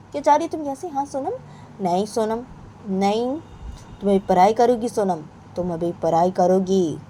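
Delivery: high, firm mother ordering study; strict mother. Acted. Mother telling Sonam to study now, firm and high. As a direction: lay down the law to the child.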